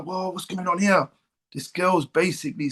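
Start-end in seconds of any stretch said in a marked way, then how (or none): 0.0-1.1 recalling being over the moon, pitch lifted; retold excitement. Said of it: "I was just excited".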